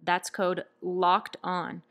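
polished podcast sponsor read; upbeat scripted ad delivery. Acted. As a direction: read it like a host plugging a sponsor, fluent and scripted. Host reads sponsor ads.

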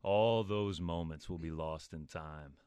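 soothing film monologue. Acted. Announcer reads a film's last line for contestants, soothing. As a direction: soothe the listener, slowing and softening on the last words. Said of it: "I was distracted by the soothing voice".

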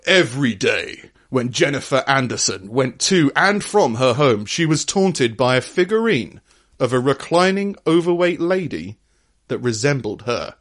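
mock-grave news reading of a tabloid article; dramatic reading. Podcaster reading a neighbour-from-hell article, dramatic reading. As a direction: read it like a hammed-up dramatic narrator. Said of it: "we do a bit of a dramatic reading".

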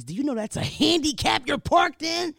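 loud, high mocking white busybody; snooty white busybody. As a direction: scold like a self-appointed parking cop. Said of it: "A white person will come up to you".

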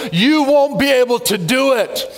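slow, mocking taunt; preacher voicing the enemy's discouraging taunt. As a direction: sneer at them to make them quit. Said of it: "This voice comes and says".

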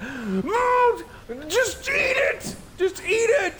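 high strained shouting, stretched out; mock panicked shout, very high and slow; frantic dad. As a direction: yell at her like a desperate father, way up high. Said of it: "Graham said something like".

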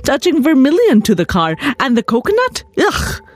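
indignant husband. Acted. Husband refuses temple blessing.

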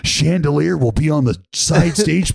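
mock club DJ patter; strip club announcer. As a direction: play the stage announcer for laughs.

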